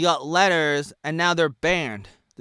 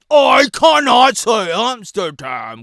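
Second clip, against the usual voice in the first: drawn-out exasperated cry; slower, drawn-out mock complaint; mock outburst, slower; 4 semitones higher, 10 dB louder, slower than usual. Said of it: "and then I could be like".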